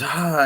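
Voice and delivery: quick pretend yell; brief imitation of a screaming character; imitated scream. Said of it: "when he screams".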